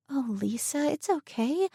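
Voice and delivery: put-on a young woman gently reassuring her friend; compassionate. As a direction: soothe a frightened girl. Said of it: "she said compassionately".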